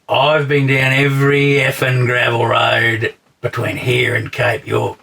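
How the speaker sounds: loud, brash boast; blustering tough-guy brag; boastful camper quote. Retold or imitated. Quoting a loudmouth camper's brag, loud and brash.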